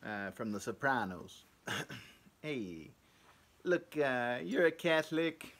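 put-on half-hearted Italian-American mobster accent; loose Italian accent. Talking to Tony from The Sopranos as a Catholic, in a loose Italian accent. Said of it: "a Italian accent to a black person's accent".

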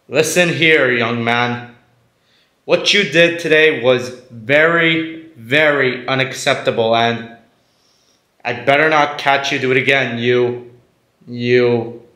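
halting, half-hearted telling-off; inept scolding. Acted. Dad forced to yell at his son, unconvincing. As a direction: scold haltingly, searching for words. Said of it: "you really suck at this".

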